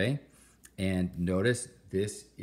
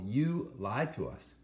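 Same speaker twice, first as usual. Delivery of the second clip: mock yelling student; 5 semitones higher, slower than usual. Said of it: "You're yelling at the screen".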